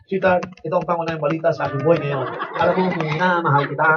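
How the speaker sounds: mock news read to a sweetheart; lightly voiced newscaster talking to his wife. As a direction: deliver love like a headline. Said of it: "May tono pa eh".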